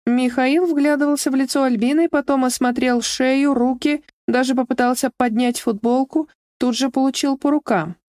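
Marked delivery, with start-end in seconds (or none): none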